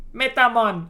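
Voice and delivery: "Metamon" loud and high with a jokey Jamaican lilt; bad Jamaican accent. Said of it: "in a bad Jamaican accent".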